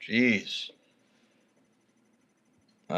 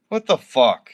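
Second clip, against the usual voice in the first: angry outburst; 5 dB louder than usual. Real, not acted. Streamer angered by viewer's insults.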